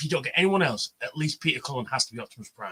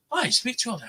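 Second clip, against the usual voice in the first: put-on girlfriend voice; 9 semitones higher, much faster than usual.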